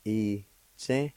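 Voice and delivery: I-tse in two separated syllables; teacher modelling I-tse deliberately; careful pronunciation. Shown as a demonstration. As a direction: sound out I-tse with a gap after I. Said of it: "First part is pronounced like this".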